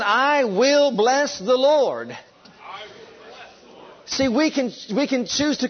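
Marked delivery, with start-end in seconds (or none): 0.0-2.2 slow, proclaimed line; repeating with the congregation. Shown as a demonstration. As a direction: proclaim it slowly together. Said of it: "Say it with me".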